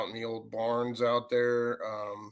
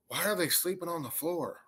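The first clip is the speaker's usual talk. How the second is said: higher-pitched imitation of a woman; imitated woman's voice; 6 semitones higher than usual. Ghost woman asking about the sleepers, imitated higher voice. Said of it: "I heard this woman's voice go".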